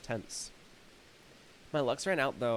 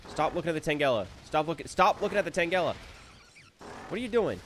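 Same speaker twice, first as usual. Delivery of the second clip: higher, louder complaint; frustrated scolding; 3 semitones higher, 3 dB louder than usual. Real, not acted. Player scolding the camera, exasperated. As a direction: scold the game for whipping around.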